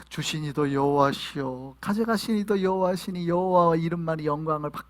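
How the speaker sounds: subdued declaration of faith; devout, resigned prayer. Acted. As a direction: recite it evenly, like a sufferer still praising God. Voices Job's prayer of steady faith.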